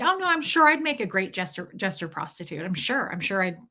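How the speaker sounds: mock him with false agreement. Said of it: "I was mocking him".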